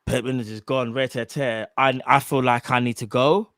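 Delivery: put-on a sad Klopp in a weak German accent; lightly put-on German accent; mock German accent. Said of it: "I can't do the German accent".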